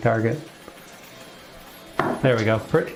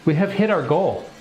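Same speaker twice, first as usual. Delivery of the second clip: higher, thrilled announcement; excited; 6 semitones higher than usual. Real, not acted. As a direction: proudly show off the win. Thrilled at reaching his goal.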